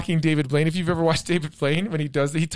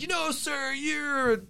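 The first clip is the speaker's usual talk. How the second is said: high-pitched mock indignation; huffy, raised-pitch retort; mad; 6 semitones higher, 3 dB quieter, slower than usual. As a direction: imitate an offended man protesting. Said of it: "the guy got him mad".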